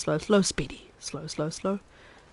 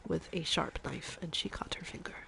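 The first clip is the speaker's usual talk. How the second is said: Chef Maria. Acted. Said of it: "I'm halfway through my accent redeem".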